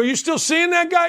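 retold shout. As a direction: call it out like a jealous husband. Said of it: "I go".

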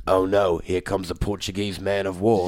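very low, slow British voiceover parody; Tom Hardy. Retold or imitated. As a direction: intone it as a deep-voiced British trailer narrator. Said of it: "You sound just like him too".

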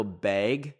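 "bag" with a Canadian vowel, like "beg"; Canadian pronunciation. Shown as a demonstration. Canadian showing how she usually says it, "bag" as "bayg". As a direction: say "bag" rhyming with vague. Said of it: "how I usually say it".

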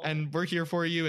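a loving mother who knew all along; mom's gentle reply. Retold or imitated. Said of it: "my mom's like".

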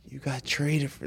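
all low in volume; very soft, hushed imitation; D Lee. Soft-spoken friend revealing a trade, hushed and dramatic. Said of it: "like, all low, bro".

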